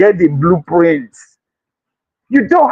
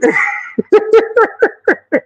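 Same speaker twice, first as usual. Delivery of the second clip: high laugh; 14 semitones higher than usual. Real, not acted. Laughs after saying I'm angry.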